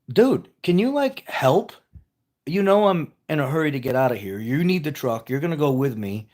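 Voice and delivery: mildly exasperated nagging, starting high-pitched; imitating annoyed wife. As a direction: retell a wife's frustrated demands for help. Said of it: "Why are you getting mad?".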